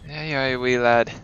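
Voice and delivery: put-on playful, lapsing Irish accent. Player teasing an enemy mid-fight, Irish accent. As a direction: slip into a casual Irish lilt. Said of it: "I don't know why I'm going Irish".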